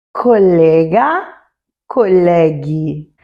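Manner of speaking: "colega, colegue" spoken slowly, hard g sound kept; teacher models "colega, colegue" slowly; Italian example words. Shown as a demonstration. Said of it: "Por exemplo".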